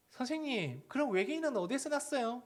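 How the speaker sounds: put-on high, innocent question of a cheeky kid; curious child. Child asking the Bible teacher an odd question, high and innocent. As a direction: ask it like a puzzled child.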